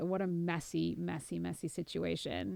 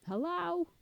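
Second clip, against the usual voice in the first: phone greeting; 11 semitones higher than usual. Pretend. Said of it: "I'll do it in an accent".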